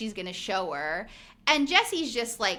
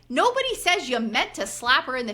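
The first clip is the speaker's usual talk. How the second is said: exasperated, laughing scolding, rising high at the end; scolding retort; 4 semitones higher than usual. Retold or imitated. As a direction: tell him off with a half-laugh. Scolding Jesse while watching.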